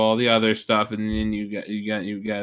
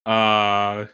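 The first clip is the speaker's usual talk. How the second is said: impression of Lollipop; slower than usual. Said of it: "impression of me".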